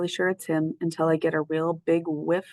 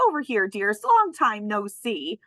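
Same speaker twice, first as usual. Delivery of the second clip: delighted greeting; 3 semitones higher than usual. Acted. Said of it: "in a delighted voice".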